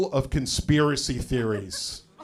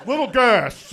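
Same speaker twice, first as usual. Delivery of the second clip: higher, slower, laughing through it; laughing repeat; 7 semitones higher, 3 dB louder, slower than usual. Shown as a demonstration. Repeating his own punchline to the crowd, laughing. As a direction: repeat it while cracking up. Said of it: "a little gas".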